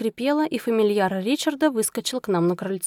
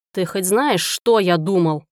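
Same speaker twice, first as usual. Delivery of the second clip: loom over her with the question; menacing rumble; 2 semitones lower, 4 dB louder than usual. Acted. Prosecutor confronting his runaway wife, slow menacing rumble. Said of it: "Грозно пророкотал он".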